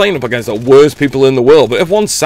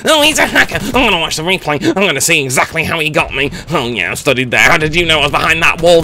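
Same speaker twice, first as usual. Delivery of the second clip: mock sore loser. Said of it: "take a death and go".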